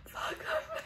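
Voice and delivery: a sharp whispered swear; whispered curse. Real, not acted. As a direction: curse under your breath. Struggling to cut thick hair.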